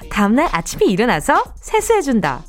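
bright shopping host read; hard sell ad. Acted. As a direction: pitch it brightly to listeners. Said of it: "더 피곤한 목소리를 내볼까?".

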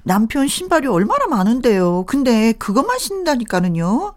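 whiny sulky complaint; whiny spoiled pouty drawl. Acted. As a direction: pout and whine to her sister-in-law. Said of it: "왜 그렇게 앙탈을 부려".

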